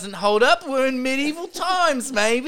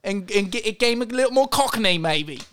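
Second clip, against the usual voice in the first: put-on British accent. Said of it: "Is that why you've been changing your accent?".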